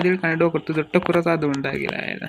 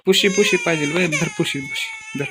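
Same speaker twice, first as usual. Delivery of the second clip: put-on baby talk to doll; 2 semitones higher than usual. Soothing the crying baby.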